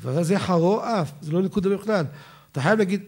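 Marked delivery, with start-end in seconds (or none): 0.4-1.1 Ashkenazi חרו with rounded "o", then אף; Ashkenazi pronunciation. Shown as a demonstration. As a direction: say חרו אף with two different vowels, the Ashkenazi way. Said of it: "לפי האשכנזים". (חרו אף בהגייה אשכנזית)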